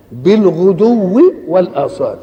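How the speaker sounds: slow intoned recitation; recited verse. Acted. Preacher reciting the verse ending, slow and intoned. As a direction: draw out بالغدو in chant.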